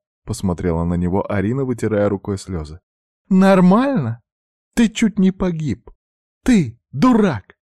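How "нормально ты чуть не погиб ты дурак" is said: high, loud furious outburst; angry shout. A narrator's reading. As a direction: berate your reckless brother. Сестра кричит на брата. (гневный крик, высоко и громко)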